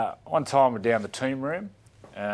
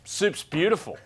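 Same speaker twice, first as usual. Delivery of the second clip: nervous player voice; 5 semitones higher, 4 dB louder than usual. Retold or imitated. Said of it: "So Bedsy went".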